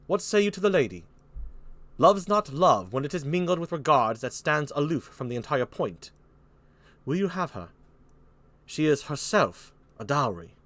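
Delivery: lightly put-on British accent; France. France urging Burgundy about the lady, light British accent. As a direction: recite it as measured British verse. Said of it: "Here's France".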